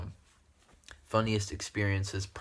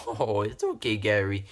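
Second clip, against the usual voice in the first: lightly put-on consoling voice; Titus impression; 3 dB louder than usual. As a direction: imitate the man on the prank call, mildly. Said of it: "He talked like that".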